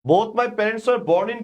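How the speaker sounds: very slow, even and deliberate; slow dictation. Shown as a demonstration. Teacher reading the model sentence slowly. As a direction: read the sentence out slowly for students. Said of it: "কি বলছে ভাইয়া".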